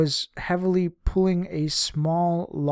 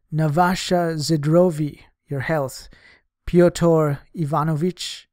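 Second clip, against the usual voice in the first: hearty toast; 5 dB louder, slower than usual. Acted. Party guests toasting loudly.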